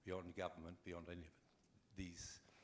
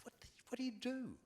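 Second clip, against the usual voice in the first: retold whisper; 4 dB louder than usual. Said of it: "I said".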